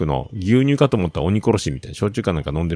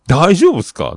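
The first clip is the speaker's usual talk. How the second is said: calling out; 8 semitones higher, 7 dB louder than usual. Retold or imitated. Rushing to help the fallen man.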